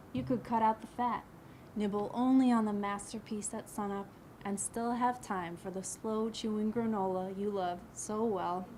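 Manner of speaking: emphatic opening phrases, easing at line ends; poem recital. Acted. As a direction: recite from memory in measured poetic phrases.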